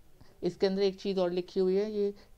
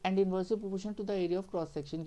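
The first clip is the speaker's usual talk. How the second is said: slow dictation; slower than usual. Shown as a demonstration. Teacher dictates definition.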